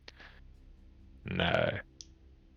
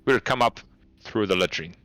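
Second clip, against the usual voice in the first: careful, measured; 3 semitones higher than usual. Acted. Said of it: "kind of carefully, choosing her words".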